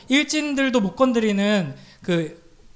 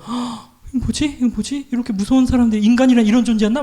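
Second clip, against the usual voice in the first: panicked inner voice; 3 dB louder than usual. Retold or imitated.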